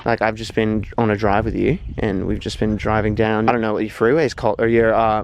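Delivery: restrained put-on Australian accent; lightly imitated Australian accent. Shown as a demonstration. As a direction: have a go at sounding Australian, without overdoing it. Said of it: "You wanna hear my Australian accent?".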